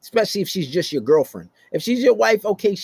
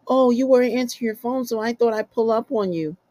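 put-on higher, innocent girlfriend voice; 7 semitones higher than usual. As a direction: play her as casually explaining.

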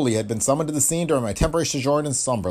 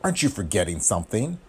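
venomous purr; 3 semitones lower than usual. Acted. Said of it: "Brookman purred venomously".

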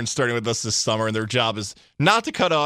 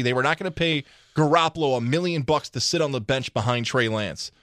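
ordinary talk, nothing marked

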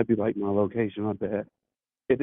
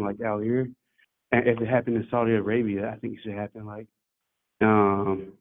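muffled. Real, not acted. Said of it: "You sound muffled".

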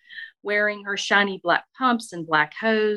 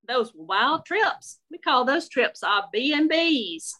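Southern lady voice; 5 semitones higher than usual. Acted. Shirley gossiping in kitchen.

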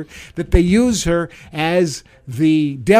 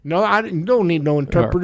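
Mitch McConnell, marble-mouthed; 2 semitones higher, faster than usual. Acted. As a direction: talk like your cheeks are stuffed with marbles. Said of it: "I need an interpreter".

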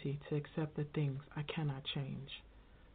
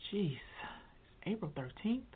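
slow surprise; 4 semitones higher, much slower than usual. Real, not acted. Realizing the date.

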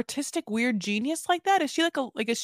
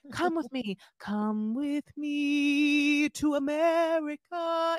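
pleading wife; 4 semitones higher, much slower than usual. Retold or imitated. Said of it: "she's just like".

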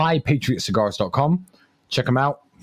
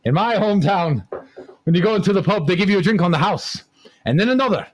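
lightly put-on Irish voice, mostly pitched up; joke Irishman; 3 semitones higher than usual. Comic as the Irishman outdoing the others, hammed-up Irish voice. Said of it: "And the Irishman says".

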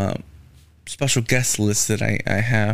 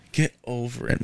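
muttered second get over it; softer repeat; 6 dB quieter than usual. Retold or imitated. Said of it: "I'm like".

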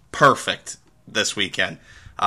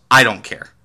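mildly dismissive, louder retort; retold attitude; 6 dB louder than usual. Lady brushing off the TSA agent, mild attitude. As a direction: imitate a curt, don't-care passenger. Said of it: "the attitude".

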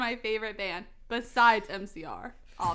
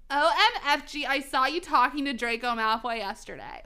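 put-on lightly done valley girl accent, louder; valley girl goth; 3 semitones higher, 5 dB louder than usual. Reading goth fanfiction aloud, valley girl accent. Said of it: "making Goth Girl sound valley".

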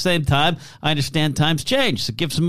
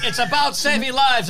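earnest appeal; 9 semitones higher than usual. Retold or imitated. Retold pleading petitioner at store.

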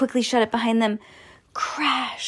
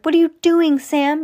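loud, high alarmed shout; yell; 9 semitones higher, 6 dB louder than usual. A narrator's reading. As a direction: demand it in panic. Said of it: "yelled Antonio".

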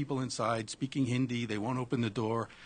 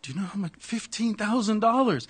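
put-on a rough, higher, louder Indian accent; 10 semitones higher, 7 dB louder than usual. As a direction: imitate the Indian owner, not very well. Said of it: "my Indian accent sucks".

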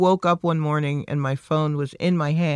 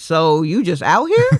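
put-on older store worker; 2 semitones higher, 5 dB louder than usual. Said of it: "just an older black woman who was working".

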